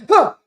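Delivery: sharp gasp of waking in a panic; startled gasp. Retold or imitated. Waking in a panic at night, gasping. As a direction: jolt awake with a gasp. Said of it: "you're gonna wake up like".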